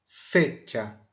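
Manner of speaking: "Fecha" stressed on "Fe"; stressed first syllable. Shown as a demonstration. Teacher repeating the example word, "Fecha" stressed on "Fe". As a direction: put the force on "Fe" in "Fecha". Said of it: "botar força mais no fe".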